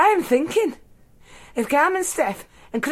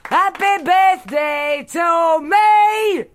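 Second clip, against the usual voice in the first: slow, loud, higher bitter roar; 5 semitones higher, 3 dB louder, much slower than usual. Acted. Drunk mother gatecrashing her own family party, roaring. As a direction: bellow it across the restaurant. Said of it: "I'm roaring".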